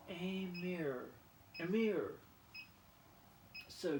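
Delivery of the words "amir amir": Amir said as uh-meer; French aimer. Shown as a demonstration. Learning French, repeats Amir. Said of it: "do we agree on the pronunciation?".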